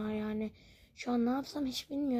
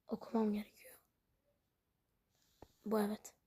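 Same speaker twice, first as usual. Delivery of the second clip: whisper; 3 semitones lower, 5 dB quieter than usual. Real, not acted. Muttering to self while playing.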